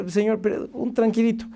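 high, soft, timid plea; placating. Retold or imitated. Driver soothing an angry customer, meekly placating. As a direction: gently try to calm someone furious.

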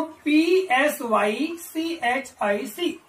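letter by letter, very slow; slow spelling out. Shown as a demonstration. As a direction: spell P S Y C H I C out slowly, each letter apart. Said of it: "फिर से पढ़ रहा हूं".

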